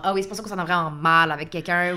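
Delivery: rueful realization. Retold or imitated. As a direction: voice a rueful aha. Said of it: "ou genre".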